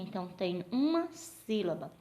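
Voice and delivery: ordinary delivery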